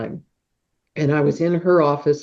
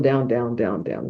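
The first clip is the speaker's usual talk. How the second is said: sinking voice; 4 semitones lower, 4 dB quieter than usual. Retold or imitated. Pushing headache down.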